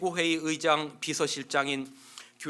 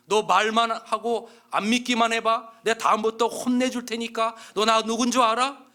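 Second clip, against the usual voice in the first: threatening; 6 semitones higher, 7 dB louder than usual. Acted. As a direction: lean in and threaten him. Inmate threatening newcomer.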